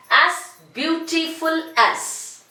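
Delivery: slow, stretched as beautiful as; slow model phrase. Shown as a demonstration. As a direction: say it slowly for the class. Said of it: "Okay, now".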